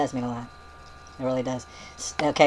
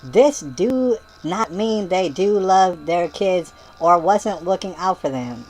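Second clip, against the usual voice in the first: mock yelling; 4 dB louder, much slower than usual. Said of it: "And she yelled it".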